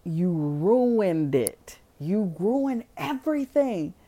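imitating a furious girl screaming at him; furious accusation. Sadie screams at Will after he smashes the glasses, slow furious blame. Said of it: "I fucking hate you".

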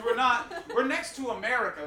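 put-on kid voice. Shown as a demonstration. Comedian embarrassed talking about his nation, light kid voice. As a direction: slip lightly into a kid's voice. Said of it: "I get a kid voice".

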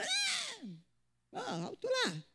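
hammed-up indignant cry; mock touchy woman. Women who flare up at anything, mocked with a high cry.

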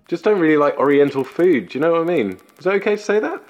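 high-pitched mum voice, rising at the end; loud, high mum voice over a video call; chattering mother. Acted. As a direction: chatter on, then check it's okay to say.

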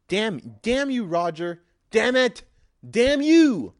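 loud, high hammed-up curse building to a yell; mock dramatic cursing. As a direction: shake your fist at the sky.

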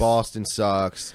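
slow, stretched-out words; drawn-out verdict. Real, not acted. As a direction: drag out both words. Disparaging a disliked accent.

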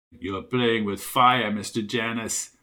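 ominous stranger. Acted. Bearded stranger warning armed Junior, low and ominous.

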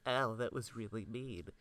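lightly voiced small child, hurt; a hint of a hurt preschooler; little kid voice. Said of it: "a little kid voice".

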